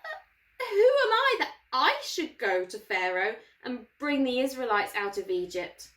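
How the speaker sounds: a hint of a worried Moses; lightly voiced doubting Moses, unsure; nervous Moses. Moses pleading with God, lightly anxious. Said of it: "But Moses said to God".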